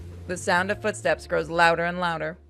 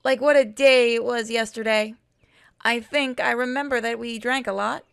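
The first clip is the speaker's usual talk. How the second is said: 1 half-hearted Shaggy voice; 4 semitones higher than usual. Acted. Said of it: "I'm just gonna use my normal".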